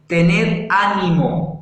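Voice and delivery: slow and deliberate; slow, weighty. Retold or imitated. Preacher giving Jesus' words slowly to the congregation. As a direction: lay each word down slowly. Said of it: "les dice".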